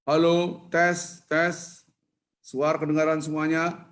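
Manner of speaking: calling out to the whole congregation over a mic; mock mic announcement. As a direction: announce it like testing a microphone to a crowd. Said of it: "Kan pakai mic".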